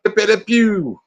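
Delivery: put-on quick French skunk accent, high and bright; a touch of cartoon French accent; Pepe Le Pew. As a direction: toss off a mock French skunk name. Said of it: "that's not a real accent he's doing there".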